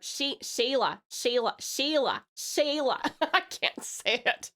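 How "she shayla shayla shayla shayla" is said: "Shayla" tried repeatedly in an American accent; "Shayla" with a half-successful American vowel; attempted American pronunciation. Shown as a demonstration. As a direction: practise saying "Shayla" the American way, not quite managing. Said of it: "I can't really say it in, like, a, my more American".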